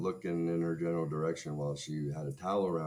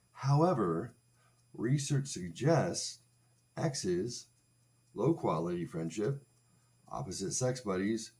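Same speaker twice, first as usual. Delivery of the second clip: choppy skim read; 3 semitones higher than usual. Shown as a demonstration. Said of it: "every fourth word".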